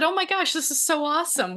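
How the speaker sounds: mock-gushing delight. Shelter contact thanking Allie for cat food, imitated excited gush.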